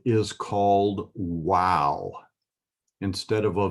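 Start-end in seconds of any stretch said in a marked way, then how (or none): 1.1-2.1 "wow" with an initial W sound, drawn out; slow, deliberate W at the start of "wow"; W pronunciation. Shown as a demonstration. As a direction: say "wow" with a W instead of a V. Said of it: "it has the W sound".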